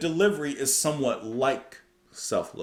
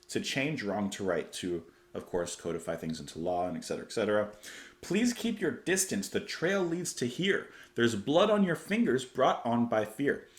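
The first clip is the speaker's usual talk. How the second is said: measured, hushed reading of a song verse; 4 dB quieter than usual. Acted. Reciting lyrics of the verse.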